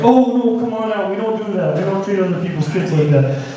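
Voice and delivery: a hint of a polite dad scolding sweetly; lightly voiced sweet parent. Dad scolding daughter in public.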